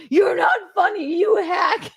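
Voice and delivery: high-pitched imitation of an outburst; mock upset outburst. Host retells caller snapping at Gino, mock upset. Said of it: "he gets so upset".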